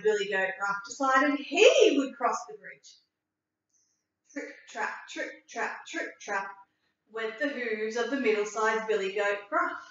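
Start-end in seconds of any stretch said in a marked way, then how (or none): 4.3-6.5 soft unvoiced trip trap; whispered hoof steps. A narrator's reading. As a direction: whisper the tiptoeing hooves. Tiptoeing hoof sounds.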